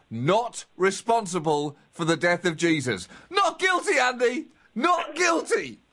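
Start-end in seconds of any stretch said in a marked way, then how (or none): 3.3-5.8 mock jubilant. Celebrating the verdict to co-host.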